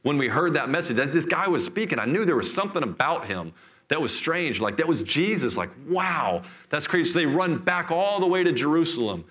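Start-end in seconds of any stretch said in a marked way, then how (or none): 0.0-7.1 mock amazement with swinging pitch; excited retelling. Disciples marvel at the man on the road, excited retelling. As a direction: play the astonished disciples, lightly. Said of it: "they're, they're hysterical".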